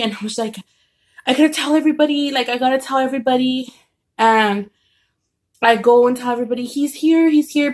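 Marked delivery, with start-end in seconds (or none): 1.3-3.7 mildly urgent, fast and raised; retold urgency. Dreamer reacting to seeing him there, mildly urgent retelling. 6.7-7.7 higher-pitched, mildly excited retelling; retold excited announcement. Dreamer telling everybody he is back, raised excited retelling.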